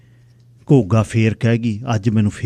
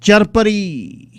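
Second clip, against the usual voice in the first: drawn-out title; 9 semitones higher, 3 dB louder, much slower than usual. A narrator's reading. Narrator announces story title.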